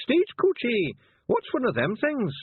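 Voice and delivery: high, loud Scottish voice, slowed right down; a gruff little Feegle in disguise barking orders; high Scots wee man. Acted. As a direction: Nac Mac Feegle voice, slow and commanding. Feegle passenger voice.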